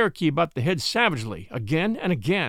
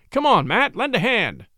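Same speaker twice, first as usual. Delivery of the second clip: loud, higher urgent call; 6 semitones higher, 3 dB louder than usual. A narrator's reading. Newcomer calling the dog musher into the ring, loud and urgent. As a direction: call your helper over fast. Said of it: "the newcomer called the dog musher".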